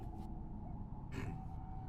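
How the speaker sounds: deliberate throat clear. Acted. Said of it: "He actually clears his throat".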